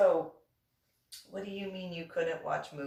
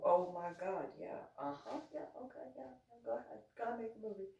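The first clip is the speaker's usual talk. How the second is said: mock dismissive agreeing; 8 dB quieter than usual. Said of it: "Yeah, you go".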